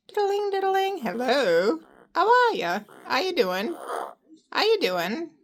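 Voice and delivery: high, loud chirpy hello; excited pet greeting. Acted. Owner chirping greetings at her parrot, high and loud.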